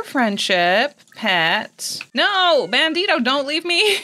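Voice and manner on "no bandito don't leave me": pleading. Real, not acted. Pleading as cat leaves.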